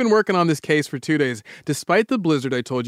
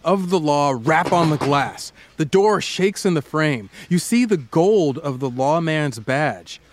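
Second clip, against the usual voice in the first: storytelling narration. Acted. Guided "picture it" story narration.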